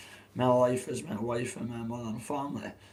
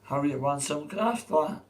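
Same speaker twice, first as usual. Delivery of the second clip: struggling English accent impression; attempted English accent; 2 semitones higher, 4 dB louder than usual. Streamer offering a lad some graft, struggling English accent. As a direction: try an English lad's accent, not quite managing. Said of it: "I can't do it with my voice".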